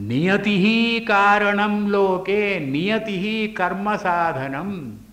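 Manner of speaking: slow spoken verse, not sung; measured spoken shloka; spoken recitation. Acted. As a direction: recite the verse slowly in a speaking voice.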